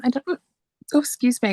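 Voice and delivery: hiccuping mid-sentence; words broken by a hiccup. Real, not acted. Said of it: "I got the hiccups".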